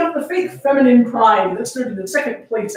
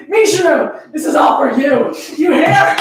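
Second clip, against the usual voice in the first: loud, higher cry with a laugh breaking in; triumphant shout; 4 semitones higher, 4 dB louder than usual. Acted. Haruka, head thrown back, calls out to Mishiro: laughing shout. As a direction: throw it to the ceiling, half laughing.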